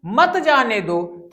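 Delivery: "मत जाने दो" slow, as one separate group; phrase after the pause. Shown as a demonstration. Teacher explains don't let go, slow joined "मत जाने दो". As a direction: keep "मत" joined to "जाने दो", drawn out. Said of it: "कुछ आपको ठहरना है".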